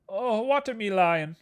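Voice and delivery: high, drawn-out playful cry; slow it down and pitch it way up; mock-dramatic high exclamation; put-on voice. Playfully repeats the misspelt name.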